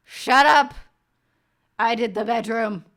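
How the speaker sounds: sister shouting over a noisy crowd; retold yell. Sister yells through the din at the wake. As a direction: belt it out to cut through the din. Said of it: "our sister yells".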